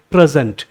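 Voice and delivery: "प्रेजेंट" as PREZ-ent, second syllable weakened; first-syllable stress. Shown as a demonstration. Teacher shows learners the noun, "प्रेजेंट" stressed on the first syllable. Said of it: "stress होना चाहिए पहले syllable पे".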